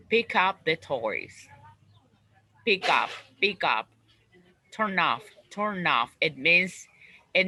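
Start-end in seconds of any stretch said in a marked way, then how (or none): 0.1-1.5 slow, pick up linked as one word with stress on pick. Shown as a demonstration. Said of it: "connect the, the stress in two-part verb". 2.6-3.9 "Pick up" run together, stress on "pick"; linked phrasal verb. Shown as a demonstration. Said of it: "we connect in just one pronunciation". 4.7-6.1 "turn off" run together, stress on "turn"; linked phrasal verb. Shown as a demonstration. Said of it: "we connect in just one pronunciation".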